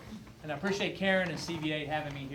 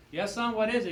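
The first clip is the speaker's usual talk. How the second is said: raised, mildly exasperated parent; aggravated father; 3 semitones higher than usual. Acted. Marine father answering his son at bedtime, mildly aggravated. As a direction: answer with a touch of acted irritation. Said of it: "starting to get a little, uh, aggravated at his son".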